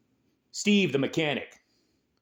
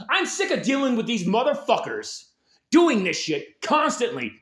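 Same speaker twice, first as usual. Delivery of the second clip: angry mob voice; 6 semitones higher than usual. Pretend. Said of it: "People might say".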